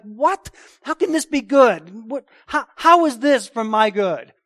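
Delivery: high, slow, pleading near-sob; a believer's broken "how is this good"; anguished cry. Retold or imitated. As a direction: cry out to God in bewildered grief. Voicing a suffering believer's anguish.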